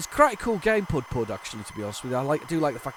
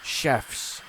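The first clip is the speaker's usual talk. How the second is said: slowed right down, picking each word out carefully; deliberately careful, syllable by syllable; slow careful tongue-twister; 3 semitones higher, much slower than usual. Real, not acted. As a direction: ease through the tricky words one at a time. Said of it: "that's easy for me to say".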